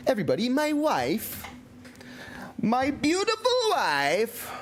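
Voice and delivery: lovingly presenting wife; fond announcement. Real, not acted. Showing off his wife.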